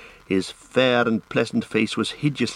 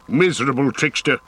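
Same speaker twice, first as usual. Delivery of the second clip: raised-pitch furious outburst; angry shout; 4 semitones higher than usual. A narrator's reading. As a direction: hurl the insult. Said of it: "he shouted".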